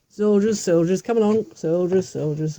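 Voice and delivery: loud summoning call; calling the soldiers. Acted. King loudly calling his soldiers to come along. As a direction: shout to gather the troops.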